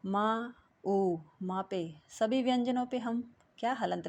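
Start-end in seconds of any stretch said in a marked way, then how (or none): 0.0-1.2 मा, ऊ stretched very slowly; slow sounding out. Shown as a demonstration. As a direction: draw out each vowel sound for pupils. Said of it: "स्वर होते हैं". (स्वरों को बहुत धीरे खींचकर बोलना)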